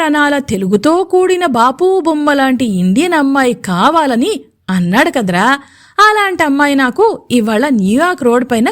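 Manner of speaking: put-on bursting to share the news about the girl; excited. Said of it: "excite అవుతూ చెప్పాడు". (ఉత్సాహంగా, excite అవుతూ)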